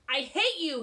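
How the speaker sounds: put-on boy shouting before running out. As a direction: hurl it at her. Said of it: "he shouted".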